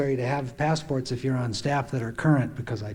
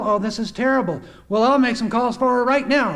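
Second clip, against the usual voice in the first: higher, urgent concern; concerned caller, acted; 7 semitones higher, 4 dB louder than usual. Him hearing she's in the hospital, acted urgent concern. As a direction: jump in to help, mildly acted. Acts out his concerned phone call.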